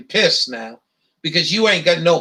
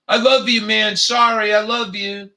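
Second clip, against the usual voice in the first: mock affectionate; 3 semitones higher than usual. Taunting the angry utility worker on the phone, mock affection. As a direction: needle him with a teasing declaration of love. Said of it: "I just kept him".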